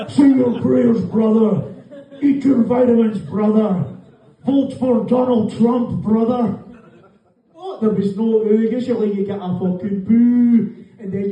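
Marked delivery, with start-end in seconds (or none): 0.1-9.4 a hint of a pumped-up wrestler preaching to fans; Hulk Hogan. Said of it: "My inner voice speaks to me in the voice of Hulk Hogan".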